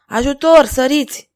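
high, loud call for rescue; cry for help. A narrator's reading. Girl being carried off, crying for help. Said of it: "strigă Gillette".

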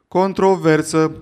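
loud, slow, drawn-out bellow; yelled heckle. Acted. The same heckler bellows again, slow loud yell. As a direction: drag out the word in a booming slow yell. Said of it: "a urlat din nou același glas".

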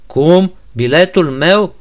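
a sharp, loud, high cry of disbelief; shocked shout. Acted. Ganea to the prince, stunned by his returned letter, shouting. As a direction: burst out loud and high at the news. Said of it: "strigă el".

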